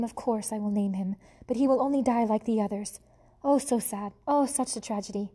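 put-on French accent, wallowing in self-pity; theatrical French lament. French mother mouse lamenting to her husband, mock-tragic French accent. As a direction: moan it like a French diva. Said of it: "She was a French mouse".

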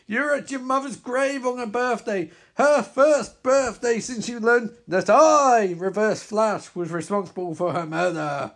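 villain narrating the hero's past; villain narration. Acted. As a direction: ask it like a cruel reminder.

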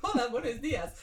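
attempted Spanish accent, amused. Reader finding Gary's voice again, in a Spanish accent. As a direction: warm up the Spanish accent with a greeting.

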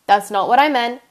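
loud, flustered correction; emphatic. Real, not acted. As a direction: blurt the correction out. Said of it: "correcting herself, louder take".

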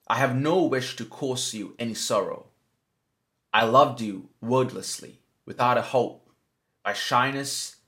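measured, pausing poem recital; poem reading. Acted. Host reciting a breakup poem to listeners, measured poem reading. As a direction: read it as verse, with long pauses between phrases. Reads a love poem aloud.

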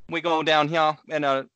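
a hint of a thick Bayou Cajun grandpa; lightly voiced mumbling Cajun grandpa; mumbled Cajun accent. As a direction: mumble it like an old Louisiana farmer. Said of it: "you understand every third word that he says".

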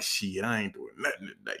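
low, soft muttered aside; low mumble. Retold or imitated. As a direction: mutter it half to yourself. Slacking off on Friday.

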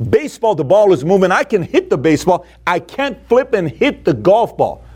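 exasperated. Retold or imitated. Athlete baffled by missing at golf practice, exasperated. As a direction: vent frustration, dragging out the last part.

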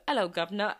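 hammed-up British greeting; stereotypical British accent. Shown as a demonstration. Speaker showing off the British stereotype, mock British accent. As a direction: toss off a cliché British accent. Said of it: "there's a stereotypical".

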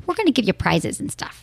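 lightly put-on Michigan accent, playful. Shown as a demonstration. To listeners about prizes, a light Michigan accent. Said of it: "I just did my Michigan accent".

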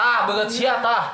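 "Tah, banget sia, tah" in a light Sundanese lilt; Sundanese intonation. Shown as a demonstration. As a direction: show how a Sundanese speaker drops "banget sia".

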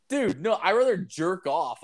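high-pitched, indignant brush-off; indignant refusal. Retold or imitated. Customer turns down the costly offer, high indignant refusal. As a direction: protest in a high voice, appalled.

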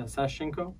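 "Sashenko" with a simple English sh in the middle; soft "sh", no "ch", in "Sashenko"; English pronunciation. Shown as a demonstration. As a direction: say "Sashenko" the anglicized way. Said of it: "So the English version is".

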